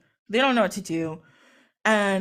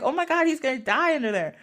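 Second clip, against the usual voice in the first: mildly alarmed, pitch lifted; mock worry; 5 semitones higher than usual. Isis fearing for Horus underwater, mock worry. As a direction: play a worried onlooker lightly. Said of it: "Isis got worried about Horus".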